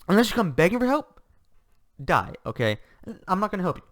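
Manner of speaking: Cosmo quote. Retold or imitated. Cosmo proudly refusing, acted quote.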